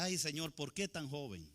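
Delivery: mourners' lament. Retold or imitated. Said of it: "la gente lloraba y decía".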